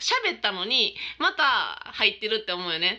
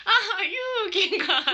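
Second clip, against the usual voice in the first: put-on slow, higher old man's voice with a laugh in it; mock grandpa on the phone; 10 semitones higher, much slower than usual. Granddaughter retells grandpa's daily call, slow, laughing old man voice. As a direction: stretch it out like the old man, amused. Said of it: "ブーブーって".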